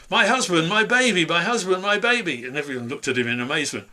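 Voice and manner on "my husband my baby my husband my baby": high, loud desperate cry; Sandy bursting into the barn shouting; frantic shouting. A narrator's reading. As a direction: burst in yelling for them.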